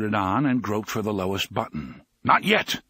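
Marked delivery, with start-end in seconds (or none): 2.2-2.8 sharp, raised-pitch bark of command; a short, urgent order. A narrator's reading. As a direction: bark it out loud and high. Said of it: "the gunslinger barked".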